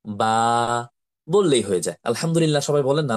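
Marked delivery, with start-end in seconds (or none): 0.1-0.9 "বা" held long on a level tone; drawn-out letter name. Shown as a demonstration. Teacher showing pupils the letter, long steady "বা". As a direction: open the lips into a long, steady "বা". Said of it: "just খালি মুখটা খুলে".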